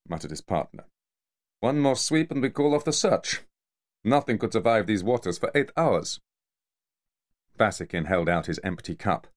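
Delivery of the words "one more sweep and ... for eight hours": high, scornful mafia enforcer voice; Kamar berating. Acted. Kamar mocking Vasikin for botching the sinking, high scornful rant. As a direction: sneer at the failed sharpshooter, pitched high.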